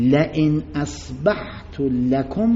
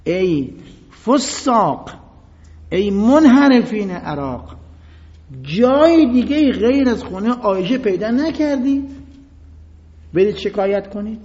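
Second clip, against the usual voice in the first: mock shout; 4 semitones higher than usual. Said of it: "با صدای بلند که رو بشنون".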